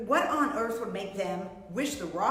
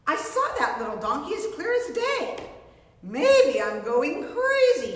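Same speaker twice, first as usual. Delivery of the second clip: muttered; 4 semitones higher, 3 dB louder than usual. Acted. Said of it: "he muttered".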